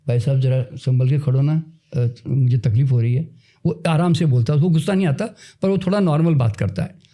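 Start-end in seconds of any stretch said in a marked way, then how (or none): 0.1-3.3 calmly. Retold or imitated. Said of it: "आराम से कहता है".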